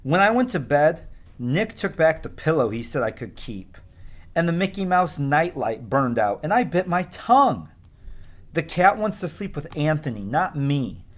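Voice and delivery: expressive storybook reading; read-aloud narration; reading to children. A narrator's reading. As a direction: tell it gently to young listeners. Teacher reads picture book aloud.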